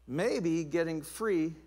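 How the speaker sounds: maybe drawn out very slowly; tentative slow maybe. Real, not acted. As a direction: linger on maybe. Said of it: "repeated word".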